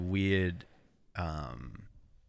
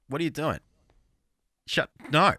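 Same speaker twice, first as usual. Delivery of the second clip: high-pitched exasperated protest, louder at the end; mock exasperation; 8 semitones higher, 5 dB louder than usual. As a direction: tell them off in comic disbelief. Mock scolding of cover singers.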